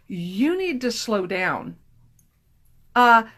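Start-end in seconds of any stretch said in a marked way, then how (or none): 0.1-1.8 a touch of a low, slow policeman voice; lightly voiced officer, measured and firm; stern policeman. Policeman at the car window, mildly stern and slow. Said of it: "a policeman comes up and says".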